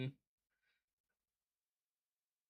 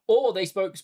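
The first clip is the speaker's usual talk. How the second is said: louder, giggling through the joke; laughing; 4 semitones higher, 7 dB louder than usual. Real, not acted. Joking with co-commentator about accents, laughing aloud. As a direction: laugh as the silly idea lands.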